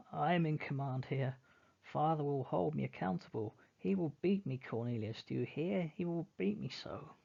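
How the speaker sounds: high, pleading panic about a beating; panicked boy. Acted. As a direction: beg in rising fear. Henry panics about father.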